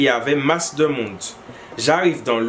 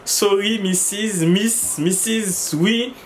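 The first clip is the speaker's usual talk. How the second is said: English; 4 semitones higher, slower than usual. Retold or imitated. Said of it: "Alors j'ai dit".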